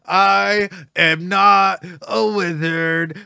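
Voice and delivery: booming drawn-out "I am not a wizard"; slow emphatic declaration. Retold or imitated. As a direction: proclaim "I am not a wizard" like a dramatic movie line. Repeating a show line.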